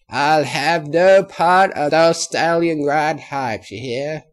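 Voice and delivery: put-on loud, slow old country granny; a stern old granny laying down the law. A narrator's reading. Granny Smith's voice.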